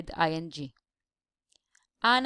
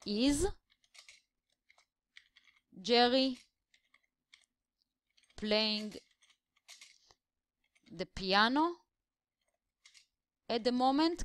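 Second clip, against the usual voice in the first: slow word by word; 4 semitones higher than usual. Shown as a demonstration. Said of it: "we will ask".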